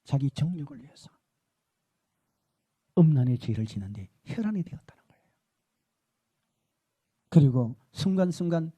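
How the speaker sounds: the Lord speaking. Retold or imitated. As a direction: speak gently as the Lord to His servant. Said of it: "주님이 그러시더라고요".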